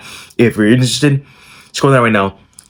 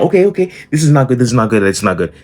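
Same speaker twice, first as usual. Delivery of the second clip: panicked; 4 semitones higher, faster than usual. Retold or imitated. Panic as mom calls.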